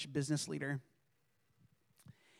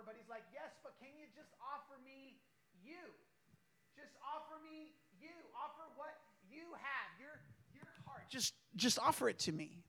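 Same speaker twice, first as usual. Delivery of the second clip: much softer and higher, close and intimate; soft pastoral voice; hushed tender voice; 6 semitones higher, 11 dB quieter than usual. Acted. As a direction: lean in and almost breathe it. Soft, intimate scripture and God's voice.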